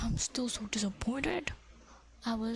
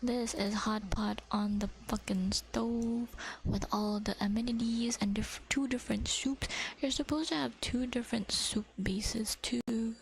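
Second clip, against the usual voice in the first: ASMR whisper. Acted. Whispering to viewers about fish cake. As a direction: whisper it close to the mic.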